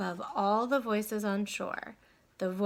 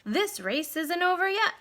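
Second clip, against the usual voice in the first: determined thought; 8 semitones higher than usual. Acted. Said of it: "thought Stuart".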